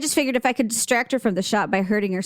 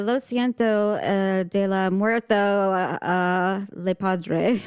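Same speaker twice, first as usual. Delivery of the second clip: fumbling Spanish; 3 semitones lower, much slower than usual. Retold or imitated. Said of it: "You're just like".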